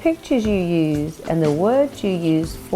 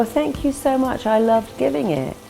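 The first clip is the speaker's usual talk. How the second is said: higher, delighted thank-you; bright confident thanks; 5 semitones higher than usual. Retold or imitated. Confident person thanked for a speech, gladly delighted. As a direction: accept the compliment gladly, voice lifting.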